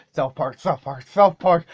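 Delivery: hammed-up chant of the show name; building cartoon chant; over-the-top hype. Shown as a demonstration. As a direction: pump the name up like a cartoon host. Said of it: "let's try to do that more over the top".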